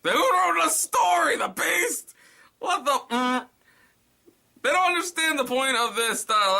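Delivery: very high, loud disbelief; laughing outrage at the story; incredulous rant. Real, not acted. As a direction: yell at the writer. Ranting at the story.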